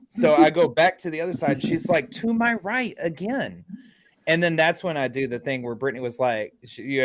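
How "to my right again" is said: slow, high, pointed quote; drawn-out retold call. Retelling the medium tracking him, slow high-pitched callout. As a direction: stretch it out as an imitated pronouncement.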